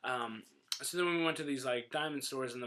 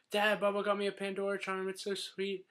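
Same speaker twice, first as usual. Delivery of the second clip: lightly voiced sweet daughter, pitched up; higher, mock-sweet telling; imitated girlfriend; 4 semitones higher than usual. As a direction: show off to dad in a put-on girly voice. Imitating girlfriend showing off to dad.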